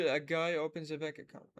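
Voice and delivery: slow, word by word; slow model reading. Shown as a demonstration. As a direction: lay each word out for shadowing. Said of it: "اللي أقول". (قراءة بطيئة كلمة كلمة)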